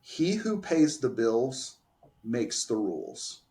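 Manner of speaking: slow, deliberate maxim with a pause midway; spaced out like a solemn saying; measured quote. Retold or imitated. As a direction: lay down the rule slowly. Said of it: "She told me".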